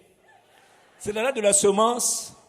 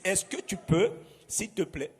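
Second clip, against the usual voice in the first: gentle request; 2 semitones lower than usual. Shown as a demonstration. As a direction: ask kindly like a pastor. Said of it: "une autre manière de le dire".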